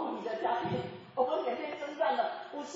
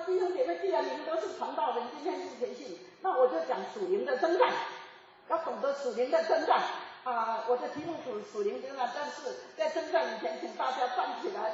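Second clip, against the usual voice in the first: retold preaching; 2 semitones higher, 3 dB louder than usual. Retells her sermon to pastors.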